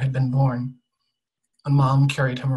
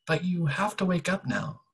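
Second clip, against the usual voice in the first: higher, lilting gentle urging; lightly voiced boy, pitched up; gently voiced boy; 7 semitones higher than usual. A narrator's reading. Boy telling the dreaming girl to wake, gently urging.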